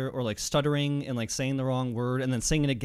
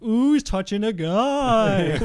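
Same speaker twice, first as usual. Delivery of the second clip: high loud slow teasing ooh with laughter; middle school tease; 10 semitones higher, 11 dB louder, slower than usual. Retold or imitated. Crowd teasing Sonny, high, slow and laughing. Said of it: "middle school kinda like".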